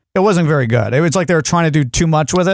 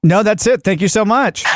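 chirpy over clear scripted; 4 semitones higher than usual. Pretend. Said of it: "no, I'll say".

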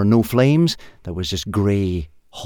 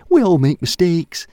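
higher, louder breezy shrug; cheerful caveman; 10 semitones higher, 6 dB louder than usual. A narrator's reading. Og excusing his poisonous soup, cheerful. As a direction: brush off the deaths gaily. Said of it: "said Og cheerfully".

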